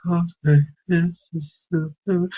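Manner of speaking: a hint of chirpy mom; imitating mom. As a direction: mimic his peppy mother. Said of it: "Now she talks like this".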